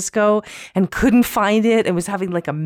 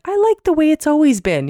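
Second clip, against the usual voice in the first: mock stuffy conservative; 9 semitones higher, 3 dB louder than usual. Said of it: "but I like when you're like".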